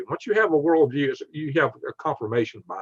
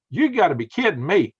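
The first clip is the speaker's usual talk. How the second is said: higher, emphatic protest; retold disbelief; 4 semitones higher than usual. Retells learning the insult was his.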